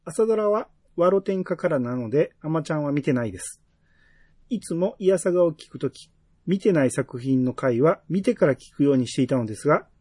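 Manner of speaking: measured, evenly phrased read-aloud; reading a listener's message. Real, not acted. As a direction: read the letter out clearly, phrase by phrase. (お便りを丁寧に読み上げる口調)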